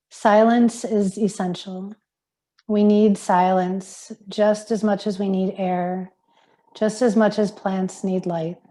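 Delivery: slow, measured quote reading. Acted. Yoga teacher sharing a monk's words on silence, slow measured reading. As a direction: read it slowly, with pauses between phrases.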